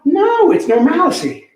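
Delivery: normalcy as nor-mal-uh-see, slow and firm; insisting on his own normalcy to a coworker; own pronunciation. Real, not acted. Stressed normalcy said nor-mal-uh-see. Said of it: "I think it's normalcy, no?".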